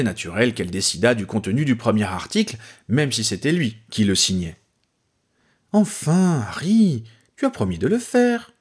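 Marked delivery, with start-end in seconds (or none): 5.7-8.5 patient reminder in a higher voice. A narrator's reading. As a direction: remind him gently, pitched up. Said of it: "d'un ton patient".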